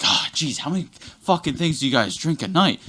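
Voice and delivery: exasperated, rude waitress gripe; put-upon server snapping at customers. Retold or imitated. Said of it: "She was very, very rude".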